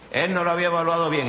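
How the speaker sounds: quick, brisk restatement of no lo había evaluado bien; fast pointed repeat. Shown as a demonstration. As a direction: rattle it off quickly for emphasis.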